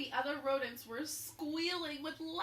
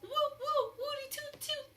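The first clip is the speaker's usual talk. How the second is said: much higher, much louder cheer; 4 dB louder than usual. A narrator's reading. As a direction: cheer for the hero. Students cheering.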